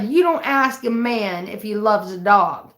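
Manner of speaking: slow, stern dad; gruff dad voice. Retold or imitated. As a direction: lay down the law slowly. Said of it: "like he does".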